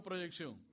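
proyección as a call-and-response cue for the congregation; proyección given as a word to repeat; repeat after me. Shown as a demonstration. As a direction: say proyección clearly so they echo it. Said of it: "Diga conmigo".

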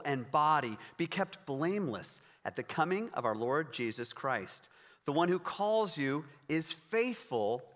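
steady, measured Bible reading; scripture reading. Acted. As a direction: read the letter aloud with weight. Reads scripture passage aloud.

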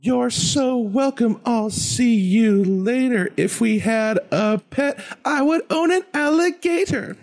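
very high, sing-song, measured rhythm; kids' show host explaining things in a high voice; DJ Lance Brock. Acted. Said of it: "I'm totally gonna do that".

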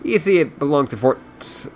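reading a novel aloud; story narration. A narrator's reading. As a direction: narrate the book in storyteller mode. Reads the book aloud.

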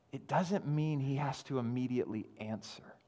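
whispered, intimate aside; soft whispered confession; hushed whisper. Real, not acted. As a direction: whisper it like a secret to the congregation. Hushed point.

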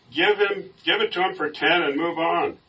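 high, loud, frustrated heckle; exasperated bidder, acted out; angry yell. A narrator's reading. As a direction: yell impatiently from the crowd. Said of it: "frustrated crowd was now angry. One yelled".

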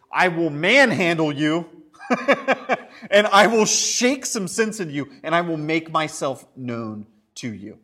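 literal Jesus paraphrase. Acted. Preacher acting out a manhandling Jesus, laughing. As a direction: ham up a Jesus who grabs you. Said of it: "in the most literal way".

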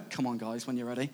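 low, softly smug aside; mildly impatient, sure you have it sorted; quietly cocky teenage self; smug impatience. Retold or imitated. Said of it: "thinking that I've got it all sorted".

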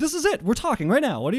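high loud exasperation; mock retort. Podcaster retorting in an argument, high and loud. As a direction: fire back in disbelief.

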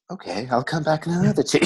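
breathy voice. Shown as a demonstration. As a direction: breathe the words out. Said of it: "we have to do it in the breathy voice".

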